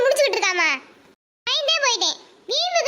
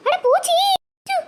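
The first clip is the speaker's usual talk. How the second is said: startled; 8 semitones higher than usual. Acted. Finds insects in the flour.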